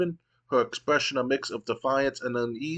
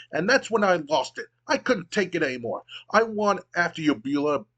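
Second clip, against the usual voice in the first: high frantic voice; 4 semitones higher than usual. Acted. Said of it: "in a high-pitched, frantic voice".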